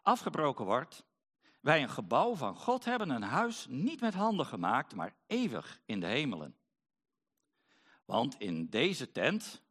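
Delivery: measured Bible reading with lifted key words; scripture reading. Acted. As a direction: read scripture to the congregation, phrase by phrase. Resumes reading after short aside. (gedragen Bijbellezing, zin voor zin)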